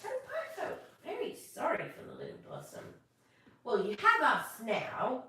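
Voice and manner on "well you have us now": cheerful. Acted. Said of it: "he said cheerfully".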